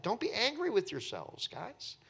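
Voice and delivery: acted soothing of worried brothers; comforting. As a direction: gently let them off the hook. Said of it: "he starts to comfort them".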